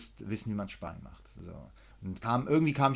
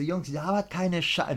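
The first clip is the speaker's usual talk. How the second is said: higher, heated retold telling-off; getting loud; 6 semitones higher, slower than usual. Heated retelling of telling off the students. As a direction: let the anger rise in the retelling. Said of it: "du merkst ja schon meine Stimme".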